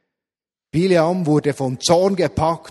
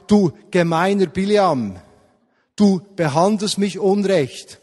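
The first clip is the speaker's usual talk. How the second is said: louder, higher sample of blaming someone; mock accusation; 4 semitones higher, 5 dB louder than usual. Shown as a demonstration. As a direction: act out how not to give feedback, accusingly. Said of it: "nicht beschuldigen". (gespielt vorwurfsvoll, etwas lauter)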